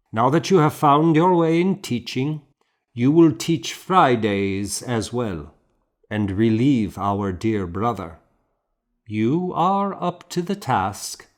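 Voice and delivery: a kindly but firm superior giving orders; the abbot. A narrator's reading. Abbot telling the young monk his new duty, firmly. Abbot assigning duties to narrator.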